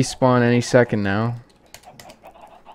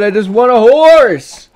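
1 exasperated; 8 semitones higher, 8 dB louder than usual. Real, not acted. Failing to breed a horse.

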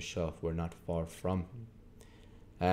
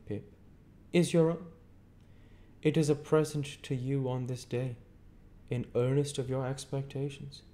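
stern lawyer Jaggers; 8 semitones higher than usual. A narrator's reading. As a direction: hold the witness with a hard stare. Jaggers announcing Pip's fortune.

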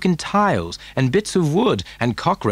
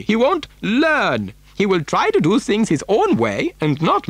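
higher, swooping eccentric factory owner's voice; animated storybook Mister Wonka; 9 semitones higher than usual. Acted. Factory owner explaining why he needs a child, animated. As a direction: relish it, pitch leaping on key words.

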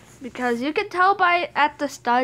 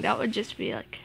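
whispering; 4 semitones lower, 7 dB quieter than usual. Real, not acted. Hiding, whispers aside.

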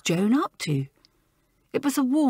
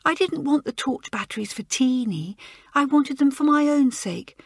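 frightened schoolgirl; 5 semitones higher than usual. Acted. Joan confesses her fear.

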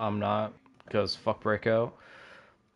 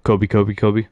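shouting; 8 dB louder than usual. Real, not acted. Calling out voice command.

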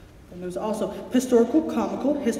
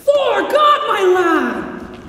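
much higher and louder, bursting with praise; delighted exclamation; 10 semitones higher, 6 dB louder, much slower than usual. Acted. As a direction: cry out in delight at the speech. Polonius applauds the recitation.

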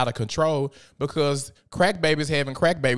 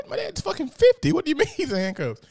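retold shock. Shocked at father's arrest.

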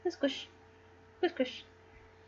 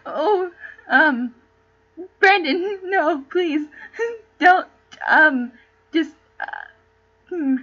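laughing plea; 4 semitones higher, 6 dB louder, slower than usual. Real, not acted. Laughing, pleading with Brandon.

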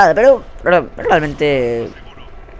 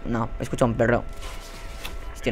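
ordinary delivery

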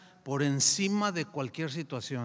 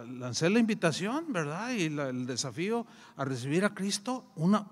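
ordinary talk, nothing marked

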